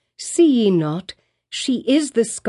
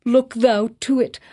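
wild appeal; 5 semitones higher than usual. A narrator's reading. Hester begging the pastor, high desperate cry. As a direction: beg as if near madness. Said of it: "this wild and singular appeal".

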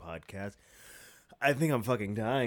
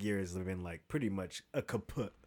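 ordinary talk

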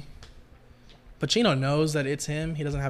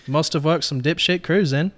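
acted British-accented questioning; 4 dB louder than usual. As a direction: read it as a British tough guy. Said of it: "in a British accent".

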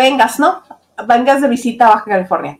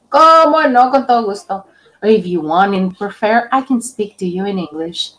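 velvet voice; 5 semitones lower than usual. Shown as a demonstration. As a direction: purr it like a commercial. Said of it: "con voz aterciopelada".

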